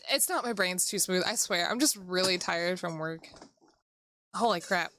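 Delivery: ordinary talk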